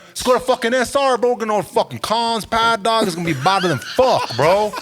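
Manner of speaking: pushy high homie talk; imitating cousins. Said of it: "they'd be like".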